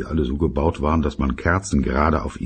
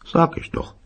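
muttered aside; 13 semitones higher than usual. Acted. Father muttering.

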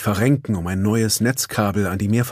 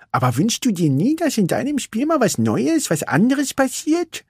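sulky little racer; Vanellope; 13 semitones higher than usual. A narrator's reading. Vanellope complains to Ralf, higher and sulky.

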